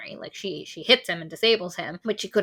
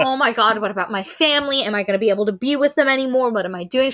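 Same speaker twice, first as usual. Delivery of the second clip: mock panic; 3 semitones higher, 6 dB louder, faster than usual. Mock panicked Maggie, loud.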